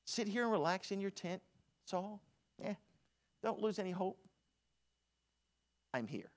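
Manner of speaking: David telling Saul to relax in his tent; confident David. Retold or imitated. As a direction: reassure the king lightly. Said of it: "confidence of David".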